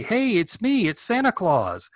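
high-pitched, lightly imitated teen prankster; mock teenage "Santa" greeting; imitated teenage hacker. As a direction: retell a teenager's creepy greeting, starting high. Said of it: "who sounded like a teenager".

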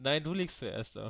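slow, playful lovers' hang-up; giggly late night call. Pretend. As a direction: coo it like a sweetheart on the phone. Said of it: "ich wollte gerade sagen".

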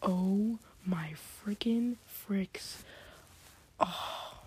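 hushed, slow disbelief; whisper. Real, not acted. Vlogger reacting to new Thundercats in a stunned whisper. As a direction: breathe it out in shock.

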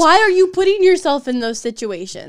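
exasperated question. Real, not acted. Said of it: "repeats her question now".

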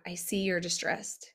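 low, soft, gentle validation; tender acknowledgement. Shown as a demonstration. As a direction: say it softly, as comfort to a hurting partner. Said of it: "tender voice".

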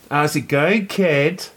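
weak attempt at Kiddie accent; failed Kiddie accent. Friend trying to copy the host, failed Kiddie accent. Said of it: "he just cannot do the accent".

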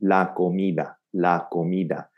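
"La comida" linked, with full o in co; joined-up Spanish. Shown as a demonstration. Teacher puts the syllables together, "La comida" in clear Spanish vowels. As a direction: join "La comida" smoothly, stressing mi. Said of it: "sort of put it together".

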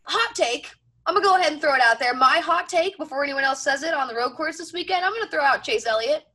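high, very fast mock eager voice; hammed-up imitation of a colleague; mocking Morgan. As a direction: gush it out like a teasing imitation of her. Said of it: "She said".

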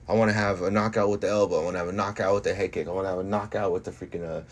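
rising, fast cocky brag; cocky boxer boast. Real, not acted. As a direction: fire off the boasts. Fighter boasting knockout plans.

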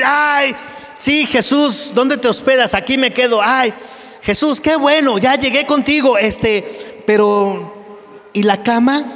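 high, sugary mock voice of a spoiled believer; sing-song high whine, acting spoiled; whiny pampered believer. Preacher mocking a comfort-seeking believer, high whiny voice.

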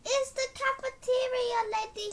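loud high gasp then shout; scared gasp. Real, not acted. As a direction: jolt at the jump scare. Jump scare in game.

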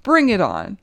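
a bright, eager little cheer; lightly voiced eager challenge. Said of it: "I cheer".

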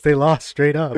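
a loud, excited imitation of the brother-in-law; excited retelling. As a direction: relive his brother-in-law's outburst. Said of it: "And he goes".

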